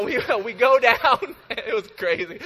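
laughing through the words. Real, not acted. Pastor laughing as he tells the congregation the hitchhike story. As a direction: chuckle it out.

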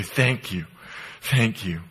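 soft, low, falling thank you; a hushed whisper of gratitude; a believer murmuring thanks to Jesus; quiet thanks. Acted. Grateful prayer to Jesus.

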